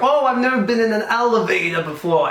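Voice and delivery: high, mock-regal English voice; hammed-up posh English monarch; Queen of England. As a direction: marvel like royalty out of its element. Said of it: "the Queen of England".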